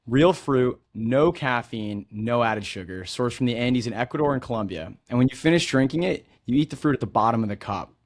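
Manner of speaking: polished host read, upbeat and even; smooth scripted welcome for the listeners; podcast intro read. Acted. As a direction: read the show opener like a seasoned host. Scripted podcast intro over music.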